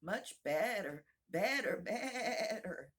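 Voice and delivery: slow, loud, rising to a sheep's bleat; squeak into bleat. Acted. The queen turns into a sheep, squeaking then bleating. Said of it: "her voice rising to a squeak as she went on".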